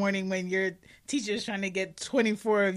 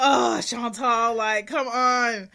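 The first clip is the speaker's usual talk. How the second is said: whiny classmates; 3 semitones higher, 7 dB louder, slower than usual. Retold or imitated. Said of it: "They was like".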